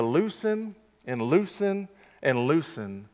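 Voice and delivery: slackening, dying-away repetition; fading away step by step. Shown as a demonstration. Grip slipping, voice sinks with it.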